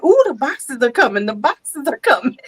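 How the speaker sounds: lightly voiced excited kids; a touch of sing-out toddler excitement. Grandmother imitating toddlers as boxes arrive, mildly excited. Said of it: "four-year-old get excited".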